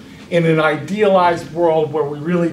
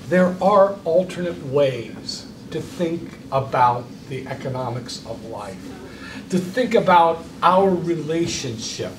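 slow, soft sincere address; slow and much softer; earnest, slow; 4 dB quieter, slower than usual. Acted. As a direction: speak gently of what work means.

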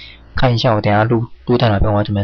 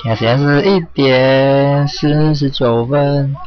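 talking clock; 3 semitones higher, much slower than usual. Pretend. Mock talking-clock time announcement.

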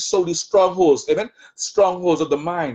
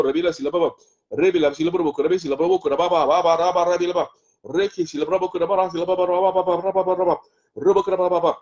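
rhythmic flowing tongues, repeating syllables; speaking in tongues. Real, not acted. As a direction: pour out the syllables in prayerful tongues. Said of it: "speaking in tongues".

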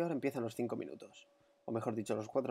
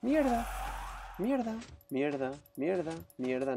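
cursing; 4 semitones higher than usual. Real, not acted. Attack failing.

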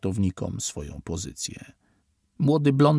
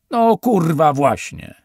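very loud, high bark; triumphant shout; 7 semitones higher, 9 dB louder, slower than usual. A narrator's reading. Officer cutting off Steven, loud triumphant bark. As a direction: slam the point home.

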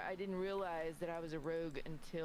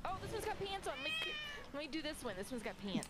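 retold delight; 12 semitones higher than usual. Retold delight choosing outfit.

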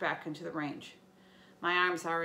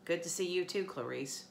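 grumbling. Acted. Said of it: "Annabeth grumbled".

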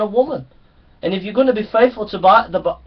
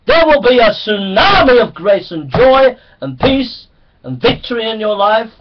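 rising sermon. Acted. Preacher urging his flock to face their sin, building in force. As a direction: press the congregation harder line by line.

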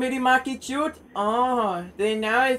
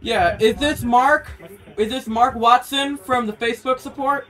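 speaking up. Real, not acted. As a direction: repeat it a touch more clearly. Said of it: "Can you please speak up".

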